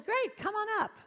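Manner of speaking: high, loud, hearty invitation; calling out. Retold or imitated. Star inviting a girl up on stage, calling out. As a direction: call it out across the audience. Idol calls her up on stage.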